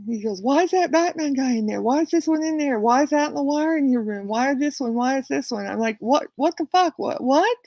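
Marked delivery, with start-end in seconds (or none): 0.4-5.7 higher-pitched agitated imitation of a rant; mock berserk rant. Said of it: "he b-, went berserk". 6.0-7.6 higher-pitched, stammered bewilderment; baffled disbelief. Retold or imitated. Retold baffled reply to his rant.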